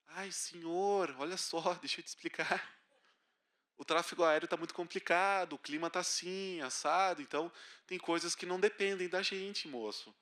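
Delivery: calm the upset passenger; reassuring flight attendant. Retold or imitated.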